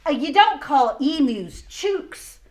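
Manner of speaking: slow, emphatic koala rhyme; koala lecturing. Acted. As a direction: spell it out like a fed-up koala.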